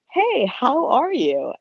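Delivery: high, drawn-out smiling greeting; nerding out. Retold or imitated. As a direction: greet your idol with a big audible smile. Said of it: "could not help but smile super big".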